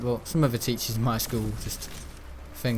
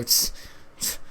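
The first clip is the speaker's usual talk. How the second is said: dismissive little tss; imitated snigger. Teacher sniggering at a pupil's question, imitated tss. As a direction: mimic a teacher's scornful hiss of a snigger. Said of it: "snigger or go".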